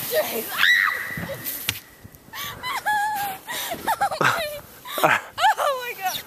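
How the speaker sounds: squealing down the slope; sledding downhill. Real, not acted. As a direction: whoop as the sled drops. Sledding down the hill.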